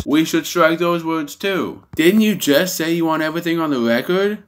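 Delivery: high-pitched imitated protest; mock indignant objection. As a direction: pitch it well up, pressing the objection. Retold AOC objection, acted out.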